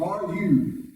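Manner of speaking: high rising mock question; questioning soldiers. Preacher voicing arresting soldiers questioning Jesus, high and doubtful. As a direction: lift the name sharply like a challenge. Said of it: "they asked him".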